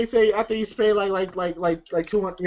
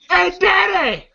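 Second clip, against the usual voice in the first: laughing mock call; 8 semitones higher, slower than usual. Movie quote acted while laughing.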